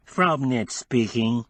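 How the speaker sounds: slow, nasal put-on twang; adenoidal twang. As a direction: disguise the voice with a twang. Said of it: "with an adenoidal twang".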